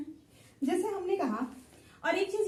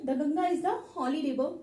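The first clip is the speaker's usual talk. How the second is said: slow, careful repeat with "the" as short "द"; slower than usual. Shown as a demonstration. Teacher repeats the example sentence for students, slow and clear. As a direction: read it again slowly for the class. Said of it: "ठीक है".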